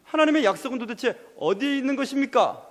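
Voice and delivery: acted anguished outcry; crying out. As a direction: demand answers as a wronged David. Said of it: "하고 지금 다윗은 외치고 있는 겁니다".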